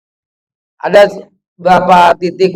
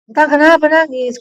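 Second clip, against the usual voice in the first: higher, soft voice of a concerned mother; tender motherly question; 7 semitones higher, 4 dB quieter than usual. Retold or imitated. Mother asks little Entang why he cries, tenderly. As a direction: softly imitate a mother comforting her child. Mother soothes her crying child.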